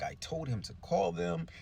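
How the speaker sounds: hammed-up tearful woman's voice; mock crying woman. Crying woman at City Hall about the mayor, high mock lament. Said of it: "and she's crying".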